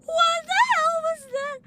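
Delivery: high, slow drawn-out shock; stunned disbelief. Real, not acted. Streamer baffled by a super-fast enemy, high and slow. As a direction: stretch it out in amazement.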